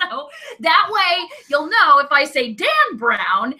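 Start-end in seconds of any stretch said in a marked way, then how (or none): 2.5-3.5 touch of cranky emphasis on the name. Shown as a demonstration. Showing co-host the hated author's name, mildly cranky. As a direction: say the name as someone you dislike. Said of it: "it'll be just in my cranky voice".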